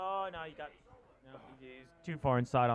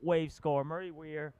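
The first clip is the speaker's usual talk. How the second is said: play-by-play; 4 dB louder than usual. Acted. Live surf contest commentary.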